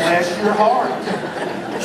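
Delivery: slow Bless your heart through laughter; amused, drawn-out Bless your heart; laughing bless your heart. Shown as a demonstration. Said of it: "this great little phrase".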